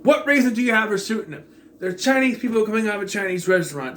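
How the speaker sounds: fast, high-pitched exasperated questioning; incredulous rant. Real, not acted. Reviewer ranting about a senseless shootout in the film, incredulous. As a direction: rattle it off in exasperated disbelief. Mock outrage at plot hole.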